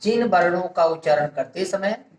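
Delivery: word by word with long pauses; dictation. Real, not acted. Teacher giving students a definition to write down, measured dictation. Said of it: "इसको भी देख लीजिए मित्रों".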